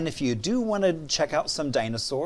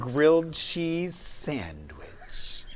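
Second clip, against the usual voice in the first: slow whispered offer; mock soothing whisper; slower than usual. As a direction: whisper it sweetly, slowly. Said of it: "I thought you were gonna be like".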